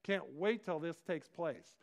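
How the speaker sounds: excited crowd. Acted. People welcoming the preacher of peace, excited. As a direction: voice a crowd that can't wait. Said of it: "people are excited and they're like".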